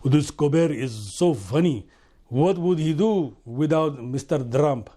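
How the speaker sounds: lightly voiced impression of another man; imitated Kuwait diner. Man watching the show on his phone in Kuwait, imitated admirer. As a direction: put on a fellow diner's voice, admiringly. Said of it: "there was a gentleman right next to me".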